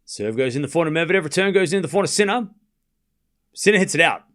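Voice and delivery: steady running tennis call; live tennis commentary, even pace; play-by-play. Acted. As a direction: call each shot as it lands.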